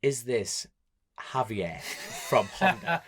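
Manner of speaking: halting, with pauses between phrases, lifting at the end; hesitant question. Retold or imitated. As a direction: ask it gingerly, piece by piece. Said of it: "took a deep breath and I went".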